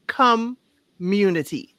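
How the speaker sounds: "community" slowly split, first syllable set apart; deliberate stress correction. Shown as a demonstration. Co-host correcting where the emphasis falls in the word, "community" split slowly. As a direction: draw out "community" in two parts, COM then munity. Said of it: "put the emphasis on the wrong part".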